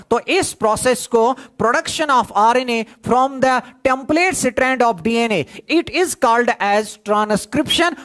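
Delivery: slow, spelled-out dictation pace. Shown as a demonstration. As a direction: give the definition word by word for notes. Teacher dictates definition slowly.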